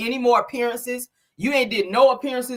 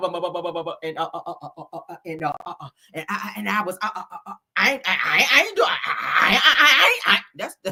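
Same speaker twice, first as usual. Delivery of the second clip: put-on nervous, stuttering voice. Mocking someone accused of lying: imitating Sheree stuttering. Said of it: "That's how Sheree do when she be lying".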